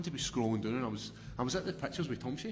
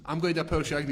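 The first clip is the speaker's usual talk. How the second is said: higher and louder, tossing it right back; mock wife; 4 semitones higher, 6 dB louder, much faster than usual. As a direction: fire the same line back at him, higher. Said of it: "And she's like".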